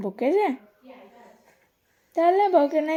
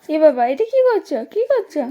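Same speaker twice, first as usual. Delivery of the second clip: surprised exclamation; 3 semitones higher, 5 dB louder than usual. Real, not acted. Adult asking baby what it is doing, surprised exclamation. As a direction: exclaim with a high jump in pitch.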